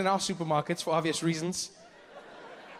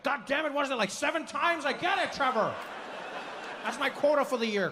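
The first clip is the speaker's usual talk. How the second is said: higher, mock irritated complaint; mock annoyed audience member; 8 semitones higher than usual. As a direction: grumble like a fed-up listener. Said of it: "some people are like".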